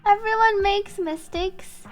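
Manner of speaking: story narration. Acted. Answering a friend's regret over mistakes, slow deliberate reading. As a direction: start emphatically, then settle into measured reassurance. Reads game dialogue in translation.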